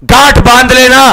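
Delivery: ordinary talk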